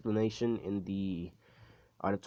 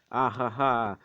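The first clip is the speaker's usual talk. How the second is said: mock villain laugh; 3 dB louder, slower than usual. Voices a taunting rival's laugh.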